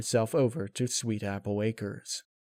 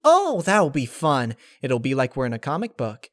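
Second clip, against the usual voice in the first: excited Pinkie; 3 semitones higher, 6 dB louder than usual. Acted. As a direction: gush like it's a game. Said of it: "jumped in excitement".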